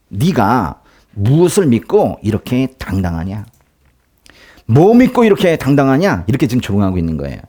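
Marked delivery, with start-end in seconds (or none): 0.1-6.2 mocking taunt. Envoy taunting King Hezekiah, mocking and scornful. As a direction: sneer at the king as if he were nothing. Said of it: "랍사게가 히스기야를 조롱합니다".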